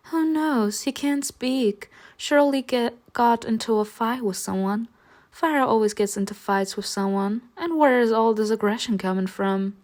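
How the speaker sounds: hint of a chirpy girl asking a favour; Messalina voice.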